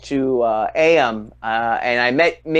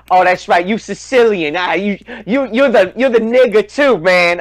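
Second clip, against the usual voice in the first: higher, lightly voiced street dude; imitating the guy; 6 semitones higher, 4 dB louder than usual. Train loudmouth agreeing with the teller, lightly imitated. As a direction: play the guy on the train conceding. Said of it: "he looks at me".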